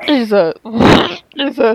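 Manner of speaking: gagging while laughing; choking back a gag mid-laugh. Real, not acted. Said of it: "I'm gagging".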